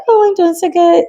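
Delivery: put-on sing-song little inner-child voice, very high. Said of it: "how I feel like the inner voice sounds".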